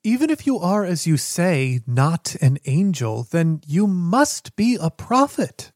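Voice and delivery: rising, impassioned proclamation; fervent believer proclaiming a prophet. Acted. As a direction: preach it with mounting awe.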